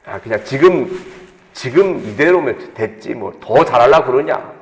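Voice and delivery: a mild hint of a sweet-talking tempter; sweet tempting voice. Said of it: "막 달콤한 이야기 들려요".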